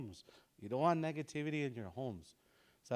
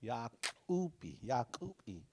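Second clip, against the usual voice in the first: slowed model; slower than usual. Shown as a demonstration. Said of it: "You and all".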